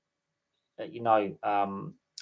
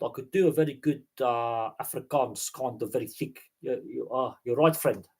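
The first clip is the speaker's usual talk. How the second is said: put-on Afrikaans accent. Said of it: "I could do South Africa if you want".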